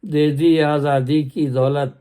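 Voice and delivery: measured poem recital; stately nazm recitation. Acted. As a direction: declaim the stanza evenly. Next stanza of nazm. (باوقار انداز میں نظم خوانی)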